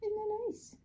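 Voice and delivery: high, soft coo to a pet; high-pitched, gentle sweet talk. Real, not acted. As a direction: show a pet something nice in a soft, high voice. Cooing to a pet.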